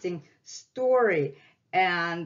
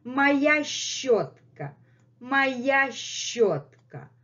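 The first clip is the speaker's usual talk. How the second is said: slow, higher playful cat voice; Messi the cat's voice; 5 semitones higher, slower than usual. Pretend. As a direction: voice the cat claiming its brush, slowly. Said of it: "And Messi is saying".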